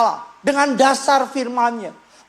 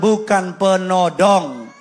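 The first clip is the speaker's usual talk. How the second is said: slow prompt; 5 semitones lower, slower than usual. Shown as a demonstration. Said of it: "Sekali lagi bilang".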